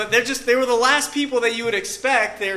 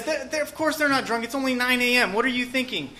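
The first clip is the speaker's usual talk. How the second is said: higher, lightly exasperated retort; incredulous protest; 3 semitones higher than usual. Retold or imitated. Peter answering those who call them drunk, mildly incredulous. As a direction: play Peter brushing off a silly charge. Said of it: "Okay, so he says".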